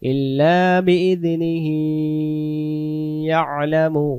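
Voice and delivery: ইল্লা বিইজনিহি joined in one breath; carried on breath. Shown as a demonstration. Teacher showing how to continue the breath. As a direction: run ইল্লা বিইজনিহি ইয়ালামু without stopping. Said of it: "দমটা ধরে যাব".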